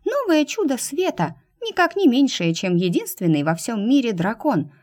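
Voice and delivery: high, indignant little mouse; squeaky mouse voice. Acted. Talking mouse character voice.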